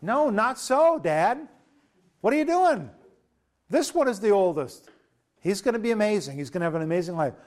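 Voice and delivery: hammed-up outburst, pushing back hard; flipping out. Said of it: "Joseph kind of flips out".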